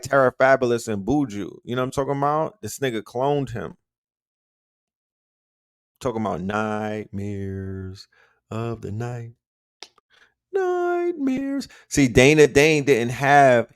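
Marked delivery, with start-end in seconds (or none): 6.0-11.7 mock fake British. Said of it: "he put on a fake British accent".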